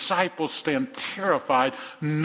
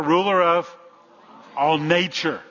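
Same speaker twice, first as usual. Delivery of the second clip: louder, emphatic delivery; 3 semitones higher, 5 dB louder, slower than usual. Shown as a demonstration. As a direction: call it out louder for the congregation. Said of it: "say it louder".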